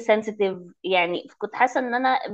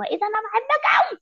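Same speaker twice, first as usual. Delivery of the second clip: high, gushing "I love you"; swooning fan; 12 semitones higher, much faster than usual. Retold or imitated. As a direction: swoon over a hero. Quoting her own crush reaction.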